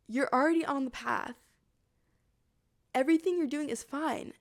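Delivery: measured reassurance with long pauses; calming. Retold or imitated. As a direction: settle someone down, one phrase at a time. Monk calms her after outburst.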